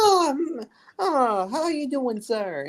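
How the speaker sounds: high giggly Italian lady; sweet singer with Italian accent. Acted. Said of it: "she has, like, a very thick Italian accent".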